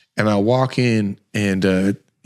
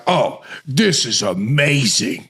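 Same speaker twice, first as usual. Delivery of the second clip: son amazed; 4 semitones higher, slower than usual. Retold or imitated. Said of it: "He was like".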